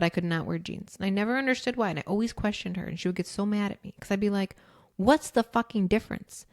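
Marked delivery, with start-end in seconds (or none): 5.0-6.5 put-on indignant kid. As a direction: argue like a stubborn child. Child arguing with mom.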